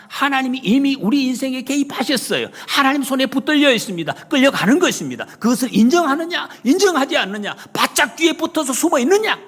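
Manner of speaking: high, loud, insistent proclamation; full-force preaching. Real, not acted. Preacher challenges the congregation to accept it, loud urgent preaching. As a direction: drive each phrase home at full pulpit force. Preacher drives the point home.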